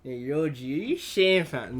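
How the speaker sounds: forced Toronto slang, half-hearted; lightly mock a try-hard Toronto kid; mocking Toronto accent. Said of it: "Nobody talks like that".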